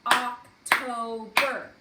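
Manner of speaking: "October" very slow and loud, in three beats; separated syllables. Shown as a demonstration. Teacher dividing October for first graders, loud separated syllables. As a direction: punch oc, to, ber apart in "October". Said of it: "So we would draw lines".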